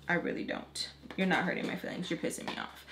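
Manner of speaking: whispered, under the breath; quiet muttering. Retold or imitated. Telling the teen girl off under her breath. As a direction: mutter it so nobody hears.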